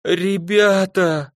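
long drawn-out, high wail of dismay; plaintive drawl. A narrator's reading. Igor clutching his heart before his friends, plaintively drawn out. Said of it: "тоскливо протянул Игорь".

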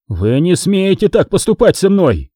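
high-pitched, understated howl of protest; mildly howled indignation; wailing protest. A narrator's reading. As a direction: wail in outrage without real volume. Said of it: "взвыл Капу".

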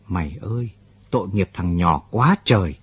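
understated choke in the throat; choked voice. Acted. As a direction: voice catching with pity. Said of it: "giọng chú bỗng nghẹn lại".

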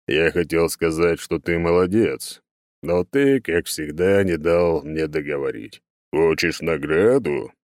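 slow, weighty god voice; patient, chiding god. Acted. God offers hero a reward, slow and chiding. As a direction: explain slowly with mild reproach.

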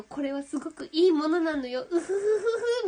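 secretive otaku gushing with a giggle; a hint of creepy fan delight; sweet eerily obsessive voice. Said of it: "みたいな". (秘密めいたオタクのうっとり声)

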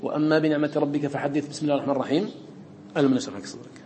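recitation with a stop after the basmala; forbidden way recited. Shown as a demonstration. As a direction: demonstrate the wrong recitation. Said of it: "لا تقول".

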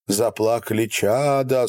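plain reading voice

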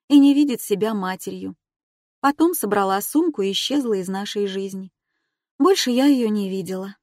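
lightly voiced young woman, earnest. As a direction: speak as the woman opening up. Female character voiced higher.

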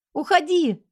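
high scared yell; frightened shout. A narrator's reading. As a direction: drive him away in panic. Wife barricaded, husband breaking door. (испуганный крик)

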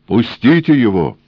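high, loud sudden cry. A narrator's reading. Death cries out for them to release the engineer. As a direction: cry out to free him. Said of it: "вскрикнула смерть".

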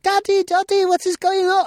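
high, childish mock voice of little kids calling for dad; kids' voices. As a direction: play the small children pounding on the door. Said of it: "his children spoke in a strange Chinese dialect".

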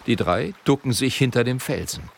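ordinary delivery

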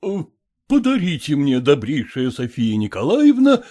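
pompous formal request to a lady; solemn. Acted. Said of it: "торжественно сказал Ерехонский".

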